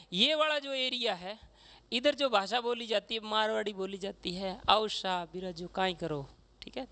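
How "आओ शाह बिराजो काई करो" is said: imitating a relaxed Marwari host welcoming a guest. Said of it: "ऐसे बोलते हैं आराम से".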